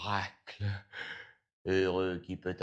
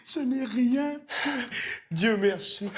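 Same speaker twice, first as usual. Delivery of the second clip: high, loud cry of relief; relieved; 13 semitones higher, 5 dB louder than usual. Acted. Miser returns after fearing for his money, relieved. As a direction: exclaim it high with sudden relief.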